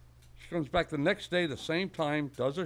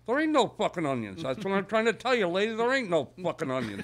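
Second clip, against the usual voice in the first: acted exasperation, somewhat louder; exasperated shopkeeper; 4 semitones higher, 4 dB louder than usual. Shopkeeper finally telling the old lady off, acted exasperation. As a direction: drive the point home, fed up.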